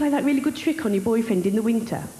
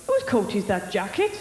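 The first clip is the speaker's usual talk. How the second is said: lightly put-on Welsh accent; 3 semitones lower than usual. Comic quoting favourite Welsh phrases to the audience, in a Welsh accent. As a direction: imitate a Welsh turn of phrase. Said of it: "favourite accent's gotta be the Welsh one".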